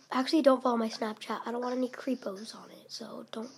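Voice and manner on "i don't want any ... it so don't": slow hushed whisper; ASMR whisper. Real, not acted. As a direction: breathe it out slowly. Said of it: "do A S M R".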